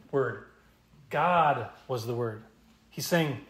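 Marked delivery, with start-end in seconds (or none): 1.1-2.4 God drawn out and set apart, slow; stress on God. Shown as a demonstration. Preacher shows which word the Greek makes emphatic, stress on God. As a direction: lean long on "God" as the first word. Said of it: "the first word as the emphatic".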